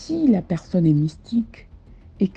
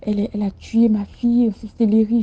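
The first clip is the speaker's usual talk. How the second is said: grieving man's accusation; 5 semitones higher, 3 dB louder than usual. Retold or imitated. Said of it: "Il me dit".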